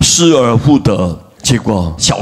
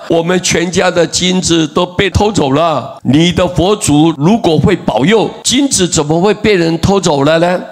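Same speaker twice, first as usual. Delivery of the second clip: higher-pitched, indignant challenge; retold angry complaint; 5 semitones higher than usual. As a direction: imitate a wife scolding her devout husband. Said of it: "他太太非常的生气". (模仿太太生气地质问)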